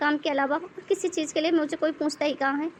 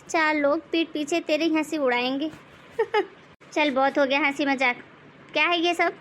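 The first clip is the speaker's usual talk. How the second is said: nagging mother-in-law. Acted. Mother-in-law scolds the bahu for sitting with a laptop. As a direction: nag the daughter-in-law like a bossy saas.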